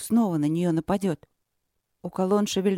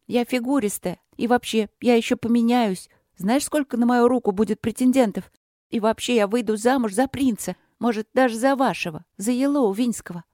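put-on higher, louder boastful girl; defiant princess; 6 semitones higher, 3 dB louder than usual. A narrator's reading. Princess defying the novice, higher and louder boasting. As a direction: brag back to cover the hurt.

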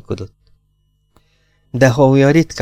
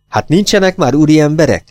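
louder, higher cry of dismay; exclaiming; 6 semitones higher, 3 dB louder than usual. Acted. Woman cries out at the detective in dismay, exclaiming. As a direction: burst out in wounded protest. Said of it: "Kiáltott fel".

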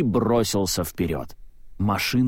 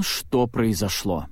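ordinary delivery, nothing marked

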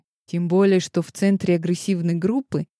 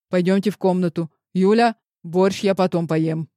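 rattling off; 3 dB louder than usual. Acted. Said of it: "затараторила она".

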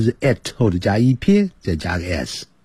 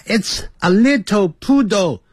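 put-on a light Chinese-accented little poodle; 7 semitones higher than usual. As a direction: imitate a Chinese learner's English. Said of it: "you're from China". (模仿中国口音念 it's a little poodle)

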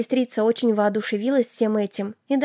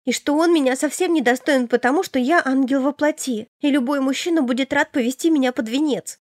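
put-on lightly higher, naive young girl; a hint of a dreamy innocent sister; 3 semitones higher than usual. Sister Elena's voice. (чуть выше, наивная юная сестра)

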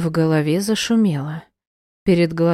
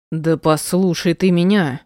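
mild bark. Acted. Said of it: "снова рявкнул он".

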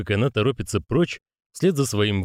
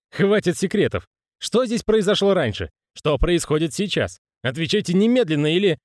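angry demand; 9 semitones higher than usual. Acted. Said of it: "Это не я… Не тот способ".

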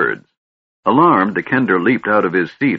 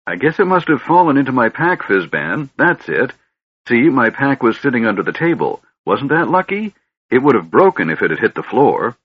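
put-on high, fussy old man voice; a scatterbrained old mage rambling on; doddering old wizard; 8 semitones higher, 3 dB louder than usual.

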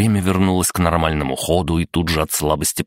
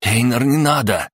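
higher-pitched calling out; urgent plea; 7 semitones higher than usual. Acted. Jess stopping Einar in the dark, urgently calling. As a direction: stop a comrade with a raised cry. Urgent warning to comrade in battle.

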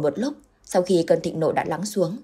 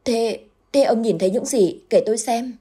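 stammering, higher and louder in shock; frightened wife stammering at her husband, pitched up; trembling question; 5 semitones higher, 4 dB louder than usual. A narrator's reading. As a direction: stutter it out in fright. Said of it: "lắp bắp run run hỏi".

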